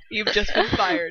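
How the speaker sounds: slow, drawling Snape; lightly done Snape. Acted. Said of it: "You do a much better Snape".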